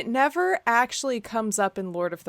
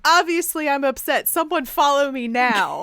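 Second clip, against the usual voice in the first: higher, louder huffy demand; dramatic diva demand; 6 semitones higher, 5 dB louder than usual. Retold or imitated. Craig demanding someone follow him, loud and huffy.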